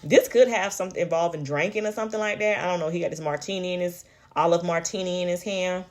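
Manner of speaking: talking while chewing gum; words round a wad of gum. Real, not acted. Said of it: "gum chewing saga continues".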